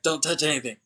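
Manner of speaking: mock panicked order; retold freak-out. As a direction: imitate someone freaking out, lightly. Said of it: "and then he freaks out".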